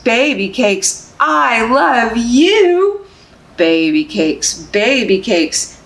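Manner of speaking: slow, sing-song picture book reading; reading to babies. Acted. Librarian reading Baby Cakes to babies, sing-song. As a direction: lull them along, gently rhythmic.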